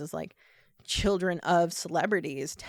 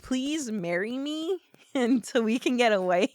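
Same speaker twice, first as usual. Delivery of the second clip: pleading; 5 semitones higher than usual. Retold or imitated. Bride pleads to elope in retelling.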